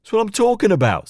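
nervous, whiny complaint; Leon's voice. A narrator's reading. Leon voiced, high pitched.

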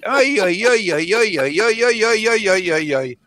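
high repeated mock wailing; mock lament. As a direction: whine it out high, hamming. Host's mock lament after impression.

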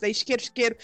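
put-on Rio accent. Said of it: "não dá pra diferenciar chiqueiro de isqueiro deles".

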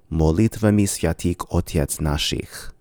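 Bulgarian molitvami sviatik otets nashich, full clear O's; Bulgarian pronunciation. Shown as a demonstration. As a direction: read it the Bulgarian way, every O kept round. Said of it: "a Bulgarian will likely pronounce this as".

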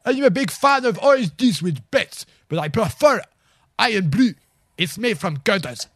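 chirpy delivery man announcing himself; Michael Mintz. Acted. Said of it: "Michael Mintz".

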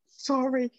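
real tearful sorry, voice breaking into crying; tearful apology. Real, not acted. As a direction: apologize through real tears. Breaks down recounting abuse, apologizes.

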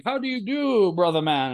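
high, sing-song tree hello; lightly hammed tree welcome; talking tree greeting. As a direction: greet the lost visitors brightly.

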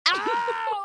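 high, loud yelp of pain; howl of pain. Retold or imitated. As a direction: cry out, eyes burning. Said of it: "I howled".

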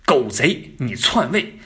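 hammed-up, hate-filled denunciation; resentful outrage. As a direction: act out bitter indignation at a usurper. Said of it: "咬牙愤恨的情绪". (模仿咬牙切齿的愤恨怒斥)

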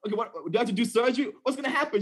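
hammed-up worried questions tumbling out; mock panic. Preacher imitating himself panicking to the doctor, mock panic. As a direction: play a half-joking alarm over a bruised thumb. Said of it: "So I'm, like, freaking out".

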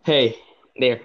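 put-on small squeaky child voice; squeaky kid voice. Shown as a demonstration. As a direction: talk like a squeaky little kid. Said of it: "I'm gonna make my kid voice".

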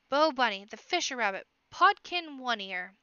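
loud eager shouting of names; little ones clamouring for a story; excited children crying out. A narrator's reading. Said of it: "all crying out at once".

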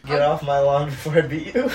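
put-on light Cuban accent, laughing through it; half-committed Cuban gangster accent. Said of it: "Do the Cuban accent".

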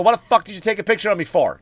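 loud, fast, angry demand; angry confrontation. Retold or imitated. Comic confronting the man on the train, angry and fast. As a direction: bark the question at the stranger. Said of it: "Just like that".

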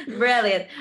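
"Brilliant" said in a British accent, falling at the end. Shown as a demonstration. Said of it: "You sounded like a news reporter".

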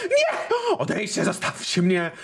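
panicked high-pitched pleading shriek; terrified and gasping, begging to be left alone; hyperventilating. Acted. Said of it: "znowu hiperwentylacja".

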